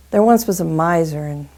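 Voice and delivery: loud, deliberate story opening; story narration. Acted. Storyteller opening the miser's tale, projected narration. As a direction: announce the tale to listeners.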